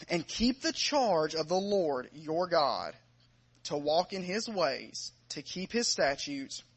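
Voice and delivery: measured, emphatic Bible reading from the pulpit; scripture reading. Acted. Preacher reading First Kings to the congregation, measured scripture reading. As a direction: read the verses aloud with deliberate weight.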